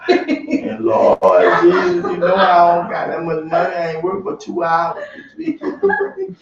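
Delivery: mock whine. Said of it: "You're whining to God".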